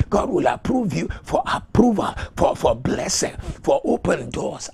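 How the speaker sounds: loud preacher's chant, rising and falling; rousing declaration. Real, not acted. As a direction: build the repeated promise with mounting force. Repeated declaration building in sermon.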